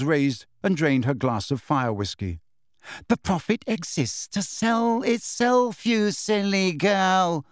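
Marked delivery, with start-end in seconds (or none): 3.1-7.4 slow, icy and condescending; cold. A narrator's reading. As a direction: chill her with every word. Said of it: "she said coldly".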